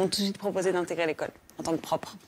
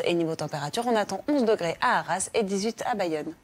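upbeat TV weather presenter; weather forecast read. Acted.

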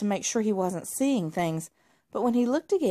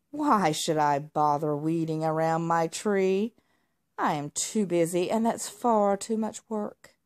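said angrily. Acted. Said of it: "Marmalade said angrily".

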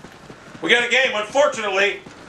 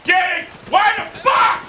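upset shout; 10 semitones higher, slower than usual. Real, not acted. Gamer not getting credit for shots, upset shout. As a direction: voice jumping high in frustration. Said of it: "I'm getting real upset right now".

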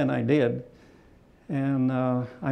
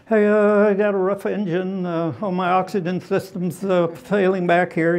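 higher, louder panicky radio call; mock RAF pilot radio excuse; 6 semitones higher, 5 dB louder than usual. German ace mimicking an RAF pilot calling in trouble, hammed-up panic. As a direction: ham up a pilot inventing engine trouble.

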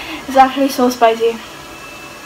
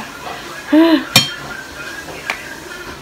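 sharp, high gasp; nervous gasp; 6 semitones higher than usual. Real, not acted. Vlogger facing spicy noodles, nervous gasp. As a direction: gasp before taking the plunge.

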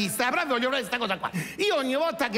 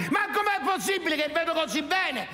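excited yell; 8 semitones higher than usual. Acted. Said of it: "Comincia a urlare".

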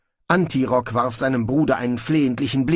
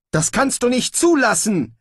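urgent cry, a bit louder; called out; 12 semitones higher, 4 dB louder than usual. Acted. Snibrill calls to Brocando to stop it, urgent cry. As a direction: call out to stop them. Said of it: "rief Snibrill".

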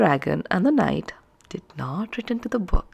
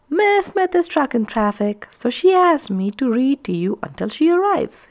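announcing; 6 semitones higher than usual. Acted. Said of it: "he announced".

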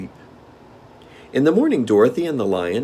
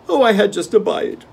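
hungry tiger; 14 semitones higher, 8 dB louder than usual. Acted.

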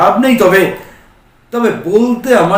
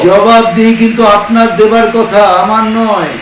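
bitter retort; 4 semitones higher, 4 dB louder than usual. Acted. Son retorts to mother.

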